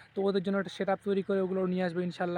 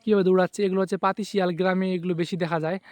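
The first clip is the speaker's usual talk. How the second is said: excited calling out; 8 dB louder than usual. Real, not acted. Calling out while the fox runs.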